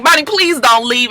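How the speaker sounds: acted begging lover; pleading. Desmond pleading as she leaves.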